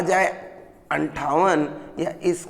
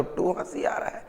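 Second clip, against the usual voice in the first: laughing while talking; 9 dB quieter than usual. Real, not acted.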